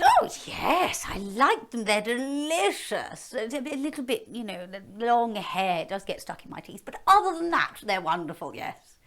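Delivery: hammed-up hungry dragon. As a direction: savour them like a snack. Dragon relishing eating champions.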